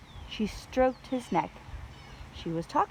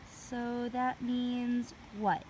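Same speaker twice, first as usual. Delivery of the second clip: Annie's voice; 4 semitones higher, much slower than usual. A narrator's reading.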